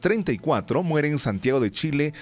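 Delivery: announcer reading history notes; radio news read. Acted. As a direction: read the day's history on air. Reads the historical segment.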